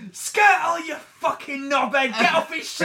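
loud mock shout at a player; hammed-up football terrace yell; retold shout. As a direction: yell it across the stand at the player. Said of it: "so I just shouted out".

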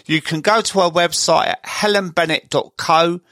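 steady scripted host read over music; smooth radio-style intro and sponsor plug; podcast intro read. Acted.

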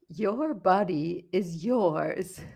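slow, drawn-out imitation of an Australian ad voice; half-hearted Australian accent, every word stretched; mock Australian ad. Mocking an Australian anti-alcohol video in a lightly put-on Australian accent. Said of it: "a strange accent, but it was in an Australian accent".

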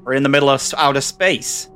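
flat robotic corporate voice; android voice. Acted. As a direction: answer like a cold android. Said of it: "You sound like a fucking android".

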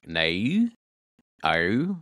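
"No, oh" with Australian gliding vowels. Shown as a demonstration. Guest shows co-hosts how Australians say no, Australian "No". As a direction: stretch the vowel of "No" in an Australian accent. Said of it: "their no's are like".

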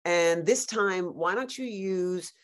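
lightly voiced director, slow and patronizing; mildly mimicked director. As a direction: drawl the note out slowly. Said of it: "the director's like".

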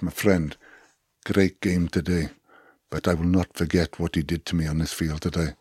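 measured threat in an imitated South African accent. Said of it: "not really good at doing a South African accent".

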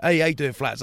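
a light cheery hello; imitating a greeting. Greeting Bentos in the street, lightly voiced. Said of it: "then I was like".

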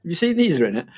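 put-on high excited little-kid voice; child showing off a toy; imitating toddler. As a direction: chirp it like an eager toddler. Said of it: "to be like".

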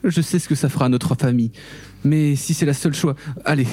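emotional pleading wife, rising. Acted. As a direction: beg him, voice climbing. Skyler pleading in scene.

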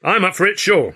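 high, loud eager agreement; suddenly keen. A narrator's reading. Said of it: "suddenly like mustard".

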